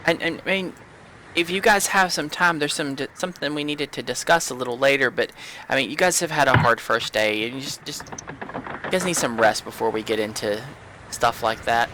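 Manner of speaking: a hint of a nervous girl; shy young cleric. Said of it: "She says".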